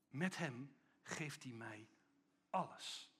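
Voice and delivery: soft, slow personal repetition; the same line turned inward, hushed; quiet confession. Real, not acted. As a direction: say it softly like a private prayer. Repeated softly to oneself.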